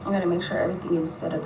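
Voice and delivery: soft unvoiced whisper; whispered aside. Real, not acted. Quiet aside to viewers, whispering. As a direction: lean in and whisper it.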